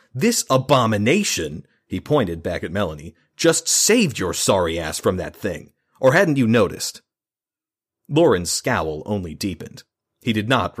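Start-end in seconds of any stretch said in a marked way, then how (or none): 0.1-7.0 shaking with anger. Acted. Julian furious at Lauren.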